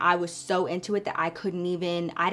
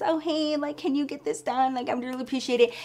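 higher, sugary coworker asking a favour; chirpy mock coworker, higher and quicker; mock sweet coworker; 5 semitones higher, faster than usual. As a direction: put on a sing-song, too-sweet voice to beg for help. Coworkers' sticky-note requests.

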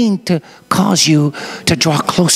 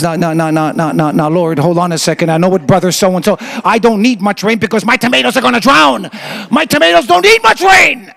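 tomato farmer protesting. Acted. Tomato farmer begging God to hold the rain, rising protest. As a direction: object like a worried farmer. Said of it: "tomato farmer says".

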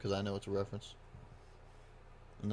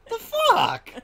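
loud incredulous yell; 13 dB louder than usual. Real, not acted. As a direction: shout in disbelief. Incredulous gaming outburst.

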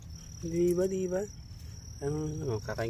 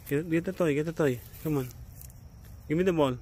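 firm command; 5 semitones higher, 3 dB louder than usual. Real, not acted. Commanding dog, getting louder.

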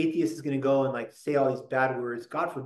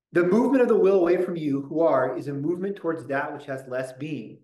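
prayerful reading; 4 dB louder than usual. Shown as a demonstration. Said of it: "reading Augustine aloud".

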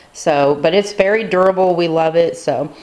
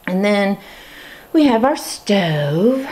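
slightly winded, slow words; out of breath while talking; 3 semitones higher, slower than usual. Real, not acted. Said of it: "I don't know why I'm out of breath".

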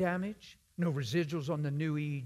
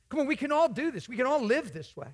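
higher and louder, rousing the congregation; rallying call; 8 semitones higher, 5 dB louder than usual. Real, not acted. Preacher rousing the congregation to believe, rising. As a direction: lift them up with a rousing call.

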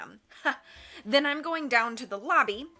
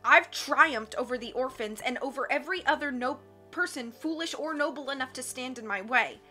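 scornful; 3 semitones higher than usual. Acted. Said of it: "Count Olaf said scornfully".

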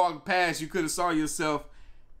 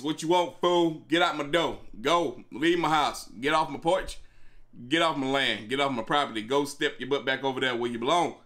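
angry at the door. Pretend. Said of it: "You gotta open up the door like this".

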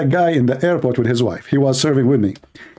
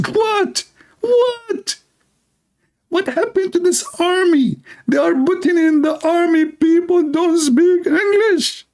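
put-on Texas cowboy accent; slower than usual. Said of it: "like, cowboy accent".

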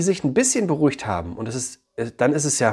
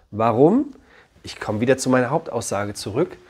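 normal talking voice

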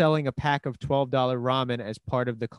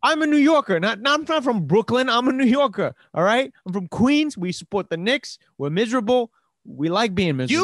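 raised, high and heated; loud defensive rant; 8 semitones higher, 6 dB louder than usual. Real, not acted. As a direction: insist loudly, fired up. Defending his team loudly.

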